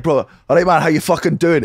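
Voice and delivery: hearty thick Scottish greeting; thick Scottish accent. Acted. Showing the accent you don't expect, thick Scottish. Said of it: "with a thick Scottish accent".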